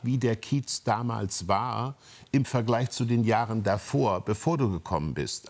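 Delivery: usual speaking voice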